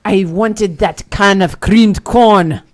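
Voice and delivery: slow loud hag voice; gypsy hag. Acted. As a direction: grumble like an old hag.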